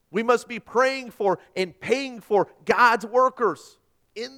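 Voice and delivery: loud, high rousing call to mission; full-force preaching. Acted. Pastor urging his church to save the world, loud and rousing. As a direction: lift the congregation with a stirring appeal.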